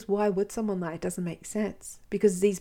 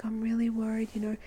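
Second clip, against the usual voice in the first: hushed, whispered mock concern; a breathy whisper of put-on worry; fake concern; 3 semitones higher, faster than usual. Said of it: "he uses fake empathy".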